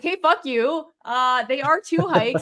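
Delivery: mildly indignant retold retort; a touch of anger; mad. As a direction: act out an annoyed comeback. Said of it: "I was so mad".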